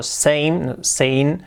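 "same" ending in N, like "sane"; drawn-out "sane" in place of "same"; imitated mispronunciation. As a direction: copy the wrong final N in "same". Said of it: "pronuncia mal algunas palabras".

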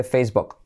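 "Facebook" with book like "bok". Shown as a demonstration. Teacher reminding students of the rule, U as O in "Facebook". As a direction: say "Facebook" with a short o-like vowel. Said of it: "U como O".

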